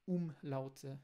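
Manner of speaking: umlaute said the German way; German umlaut word. Shown as a demonstration. Teacher models umlaute for Brazilian learners. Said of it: "não aprender os".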